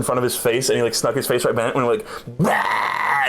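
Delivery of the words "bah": jump scare shout. Retold or imitated. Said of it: "scary face".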